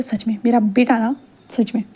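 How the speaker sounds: fond mutter. Acted. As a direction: mutter it quietly, shaking your head at the kid.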